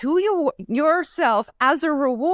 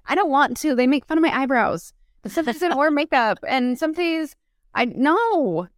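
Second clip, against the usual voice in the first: higher-pitched reluctant objection; mock whiny protest; 3 semitones higher than usual. Acted protest against teaching.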